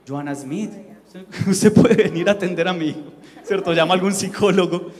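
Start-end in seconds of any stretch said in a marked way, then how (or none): 0.1-3.1 laughing mock plea. Mock call for a counselor.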